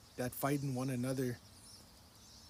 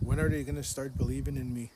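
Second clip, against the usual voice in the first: louder, exasperated demand; raised voice, mildly angry; retold anger; 6 dB louder than usual. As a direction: retell an angry plea, pushing the opening words hard. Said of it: "I'm angry".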